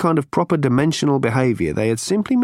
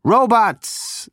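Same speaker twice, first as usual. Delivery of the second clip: higher, brash Zaphod voice; 10 semitones higher than usual. A narrator's reading.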